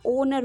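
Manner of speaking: ओनर begun straight on the O, no H; silent H. Shown as a demonstration. Teacher reading honor with the H removed, silent H. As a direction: drop the H from ओनर, 'oh-ner'. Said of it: "एच हमने हटा दिया यहाँ से".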